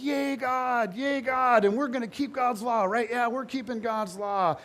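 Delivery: mock cheering. The crowd cheering God, promising to keep the law, mock cheering. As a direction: lightly play the eager crowd, all smiles.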